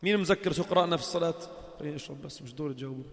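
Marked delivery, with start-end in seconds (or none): 1.8-3.0 muttered aside. Real, not acted. Aside while drinking.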